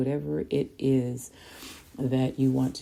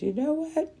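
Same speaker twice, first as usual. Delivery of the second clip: emphatic declaration; 8 semitones higher than usual. Retold or imitated. Epiphany, quitting diets for good.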